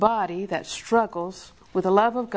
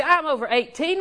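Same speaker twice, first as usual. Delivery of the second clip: put-on defiant kid; 5 semitones higher than usual. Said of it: "I hear kids say".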